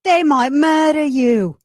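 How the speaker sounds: mock public warning. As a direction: play it as a hammed-up alarm. Echoing cohost, mock warning.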